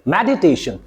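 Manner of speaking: मेडिटेशन as med-i-TAY-shun, low; correct syllable break. Shown as a demonstration. Teacher modelling for students, मेडिटेशन as med-i-tay-shun. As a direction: keep med together in मेडिटेशन, light separate i. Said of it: "break करके देखो".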